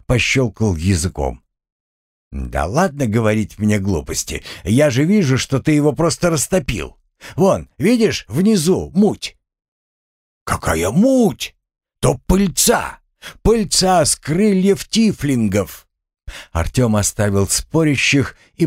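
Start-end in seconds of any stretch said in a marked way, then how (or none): 2.3-9.4 haggling merchant. Acted. Buyer haggling over honey. 10.4-15.9 indignant seller. Acted. Seller defends his honey.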